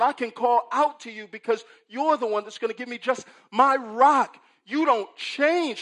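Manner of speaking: loud, high crying out My, my, my; soul-singer style. Acted. Preacher voicing Habakkuk, loud and high soul cry. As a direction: belt it like a soul singer calling on God. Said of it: "He takes a page from a soul singer's book".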